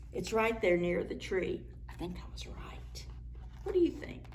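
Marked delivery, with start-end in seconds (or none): 1.9-3.1 hushed aside; soft unvoiced aside; whisper. Real, not acted. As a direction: whisper it to yourself. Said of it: "whispered aside".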